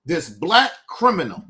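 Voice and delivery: black hit hard and loud, falling; stress on black. Retold or imitated. Mocking the host's words, stress on black. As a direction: lean on the word black with scorn. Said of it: "You see what he did?".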